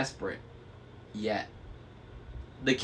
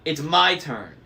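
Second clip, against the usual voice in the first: loud, higher crone whine; squabbling hag; 4 semitones higher, 6 dB louder than usual. A narrator's reading. Sister insisting to the driver. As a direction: demand your turn like a spoiled witch.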